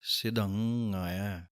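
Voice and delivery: ਸਿਧੰਗਾਇਆ as sidh-ngaa-iaa, slow; sidhangaaiaa slowly. Shown as a demonstration. Teacher answering how to say ਸਿਧੰਗਾਇਆ. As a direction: say ਸਿਧੰਗਾਇਆ with a held ng. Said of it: "ਦੋਵਾਂ ਨੂੰ ਇਕੱਠਿਆਂ ਬੋਲ ਦੇਣਾ ਹੈ".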